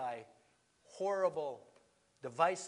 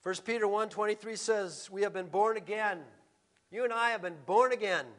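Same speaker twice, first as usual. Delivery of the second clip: raised, emphatic pulpit voice; forceful preaching; 3 semitones higher, 8 dB louder than usual. Real, not acted. Preacher to congregation on the nations, forceful preaching. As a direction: preach it out, landing hard on key words.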